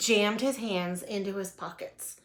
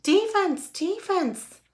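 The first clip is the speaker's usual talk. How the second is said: high, loud sideline yell; 11 semitones higher, 5 dB louder, slower than usual. A narrator's reading. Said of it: "Froggy's dad was yelling".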